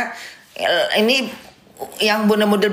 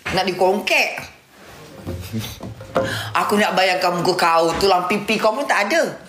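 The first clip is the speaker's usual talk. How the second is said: mock indignant scolding. Acted quarrel with Walid in Malay.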